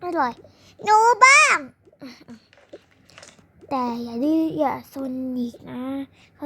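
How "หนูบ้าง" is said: put-on high, loud little child voice; eager child. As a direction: beg like a small kid. Child begging for jellybean. (ลูกคนเล็กขอเสียงแหลมดัง)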